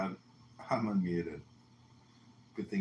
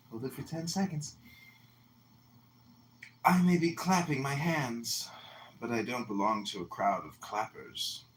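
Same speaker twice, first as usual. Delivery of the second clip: magical poem reading. Acted. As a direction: recite it like a mystic poet. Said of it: "I'm gonna read you all a magical poem".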